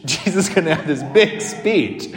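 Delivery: laughs through the line in amused disbelief; laughing. Real, not acted. Chuckling while speaking. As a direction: priest telling his congregation about the show, laughing at it.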